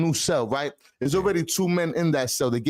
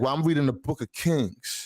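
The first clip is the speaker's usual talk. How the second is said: put-on New York accent. Retelling what an older cellmate said when asked what he was reading: imitating a New York accent. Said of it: "In a New York accent".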